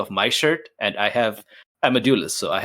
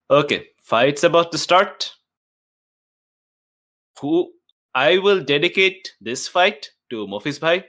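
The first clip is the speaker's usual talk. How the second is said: in-character dedication; 3 semitones higher, 4 dB louder than usual. Acted. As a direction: announce it proudly to the crowd. In-character dedication speech, declaiming.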